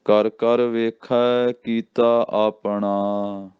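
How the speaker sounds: slow measured gurbani chant; slow recitation. Shown as a demonstration. Teacher chanting the line slowly for learners. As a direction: intone each word slowly for the class. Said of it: "ਇਹ ਵੀ ਧਿਆਨ ਰੱਖਣਾ".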